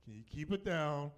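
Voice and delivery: polite, restrained request; respectful. Retold or imitated. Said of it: "which I was respectful".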